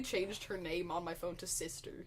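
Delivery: unvoiced whisper. Real, not acted. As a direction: whisper it like a secret. Whispered confession.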